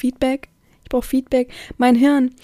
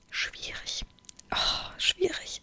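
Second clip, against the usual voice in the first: whispered aside; 6 semitones higher, 13 dB quieter, much slower than usual. Real, not acted. Whispered aside about heels.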